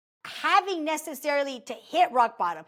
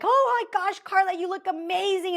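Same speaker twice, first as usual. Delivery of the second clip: high gushing praise; excited compliment; 7 semitones higher than usual. Retold or imitated. Ex praising Carla after she leaves the stage, gushing high. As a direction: rave over how she looks.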